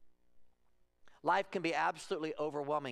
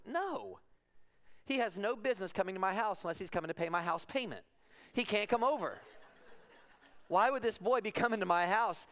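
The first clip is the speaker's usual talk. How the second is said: indignant dad refusal; 5 semitones higher than usual. Retold or imitated. Dad refusing daughter's boy visit.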